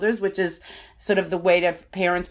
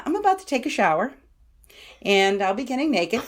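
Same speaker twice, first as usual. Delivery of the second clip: sugary sweet tone; 3 semitones higher than usual. Shown as a demonstration. Parent to pushy kid, sugary sweet warning. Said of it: "in this tone of voice".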